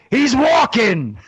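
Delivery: laughing quote. Retold or imitated. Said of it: "And they go".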